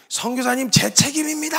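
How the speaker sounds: high-pitched imitated wail. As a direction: act out a pastor sobbing out his guilt. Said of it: "오열을 하시면서". (울부짖듯 오열하는 흉내)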